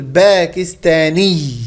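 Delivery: "باكستاني" slowly, a clear doubled final ياء; nisba ending shown. Shown as a demonstration. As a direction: draw out "باكستاني" to show the ending -iyy. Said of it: "هذه نسميها جنسية".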